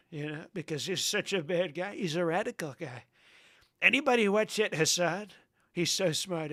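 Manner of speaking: put-on voice, dripping with sarcasm; laughing through fake praise; mock sarcasm. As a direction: praise him while meaning the opposite. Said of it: "I'm joking".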